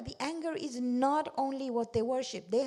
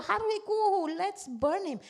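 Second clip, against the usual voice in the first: mock angry cry; 9 semitones higher, 5 dB louder than usual. Angry crowd calls to burn Ibrahim.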